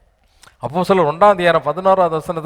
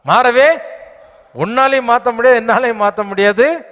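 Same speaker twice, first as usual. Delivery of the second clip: higher and louder, hammer it home; emphatic preaching; 5 semitones higher, 3 dB louder than usual. Real, not acted. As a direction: declare it can never change. (உரத்த உறுதியான பிரசங்கம்)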